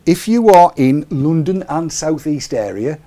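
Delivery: playful Cockney put-on. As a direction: lay on a broad Cockney twang for laughs. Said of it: "down south where they talk like that".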